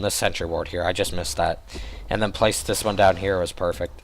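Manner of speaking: hoarse, tired voice; losing his voice, hoarse. Real, not acted. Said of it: "I'm starting to lose my voice".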